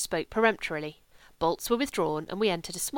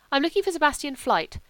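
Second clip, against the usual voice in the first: raised, higher voice over dance music; speaking loudly; 5 semitones higher, 4 dB louder than usual. Acted. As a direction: call out to be heard over the gramophone. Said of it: "I spoke loudly to make myself heard".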